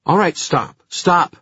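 loud, high stop it; urgent shout. Acted. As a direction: break up the fight. Emma breaking up fight.

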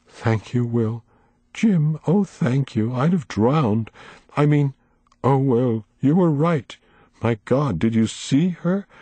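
a hint of a high, trembling old lady; lightly voiced old woman, tearful and pleading; shaken old woman. A narrator's reading. Miss Foley voiced, shaken.

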